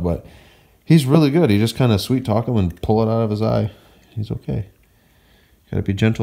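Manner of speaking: loud explaining. Real, not acted. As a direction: explain it boldly to the viewers.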